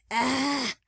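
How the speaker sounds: high, drawn-out "ah" of pain; pained growling cry. A narrator's reading. Man waking with pounding head, pained cry. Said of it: "Lamech growled".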